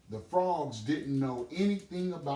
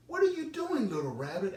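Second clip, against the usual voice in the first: very high louder squeaky question; surprised groundhog; 9 semitones higher, 4 dB louder, faster than usual. Acted. Groundhog pokes his head out to ask, very high.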